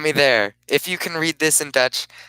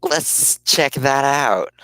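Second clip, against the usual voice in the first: slow breathy whisper, almost secret; 2 semitones higher, much slower than usual. Real, not acted. Whispering to viewers about the broken Arduino, hushed. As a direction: whisper it like a little confession.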